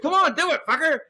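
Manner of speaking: high, loud goading; loud playful taunt; mock taunt. Egging on in retold scene.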